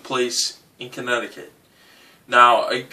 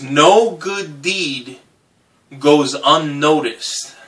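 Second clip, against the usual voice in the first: solemn fortune read; much slower than usual. Shown as a demonstration. Reading the fortune slowly.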